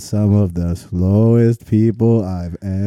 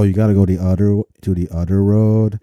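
mock Canadian; 3 semitones lower, faster than usual. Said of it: "a real conversation I had with a Canadian".

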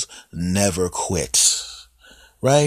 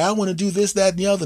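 much higher, teasing catcall from a car; 11 semitones higher, much faster than usual. Retold or imitated. Women shouting lewd things from a passing car, high voice. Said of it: "They drive by".

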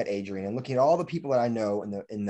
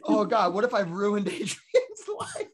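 mock panic; 7 semitones higher than usual. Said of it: "I was so scared".

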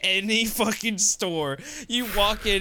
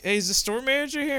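mock fire marshal voice; 8 semitones higher, faster than usual. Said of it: "he was like".

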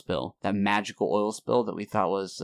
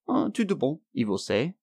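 Portuguese reply; 4 semitones higher than usual. Retold or imitated. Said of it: "And you go".

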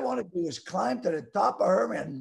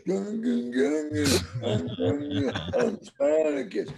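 a light imitation of slurred post-stroke speech; Kirk Douglas stroke; 3 semitones higher, much slower than usual. Telling the hosts about his stroke, lightly imitating slurred speech. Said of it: "like Kirk Douglas".

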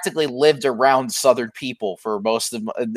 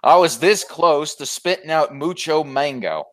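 mock Southern accent. Still playing the Southerner.

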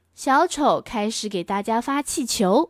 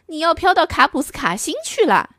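higher, brighter clown warning; higher clown calling up to the girl; 6 semitones higher, faster than usual. Acted. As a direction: call out like a cheerful clown. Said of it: "小丑说".

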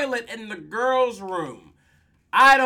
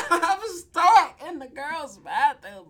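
mock whiny plea; 7 semitones higher, 3 dB louder than usual. Trapped boy pleads.

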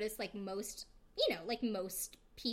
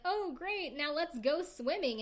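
mock enthusiasm; 6 semitones higher, 3 dB louder, slower than usual. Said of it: "Barry's like".

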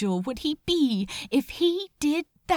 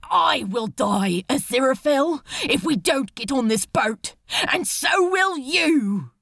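urgent, raised voice breaking into a cry; desperate loud plea; 4 dB louder than usual. Acted. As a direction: shake him with your words. Crowley shaking him into sense.

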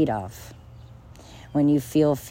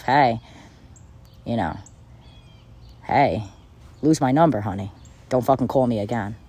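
dismissive brush-off; 4 semitones lower than usual. Pretend. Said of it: "you might tell yourself".

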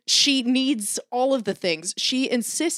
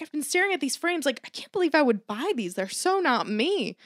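mom voice; 5 semitones higher than usual. Retold or imitated. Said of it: "then she's like".

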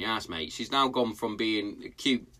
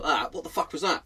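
startled outburst; 6 semitones higher than usual. Retold or imitated. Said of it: "and I'm like".

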